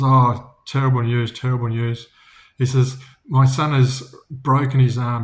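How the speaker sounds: father upset about his son; distressed farmer. Acted. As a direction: call out the disaster in a rush of alarm. Farmer reports son's injury.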